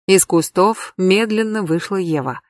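usual speaking voice

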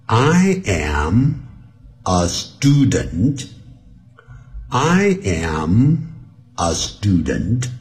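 slow I am, pause, a student; careful slow teaching model; slow speed. Shown as a demonstration. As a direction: read slowly, word groups apart. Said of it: "我现在由慢速".

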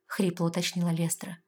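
plain reading voice

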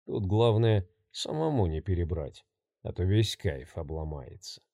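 low, quiet menacing voice; sinister maniac. Acted. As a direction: murmur it like a cold killer. Maniac's sinister inner plans.

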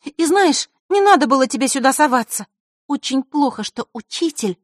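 put-on girl's voice. Zakharra voiced.

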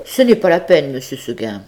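the stubborn little goat answering; lightly voiced little goat. Goat answers her master. (petite chèvre têtue, voix légèrement plus aiguë)

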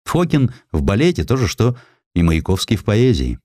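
usual speaking voice

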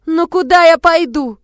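high, loud, slow howl of despair; wailing plea. A narrator's reading. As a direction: wail out her hopelessness. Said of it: "завыла она". (жалобный вой)

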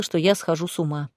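plain reading voice

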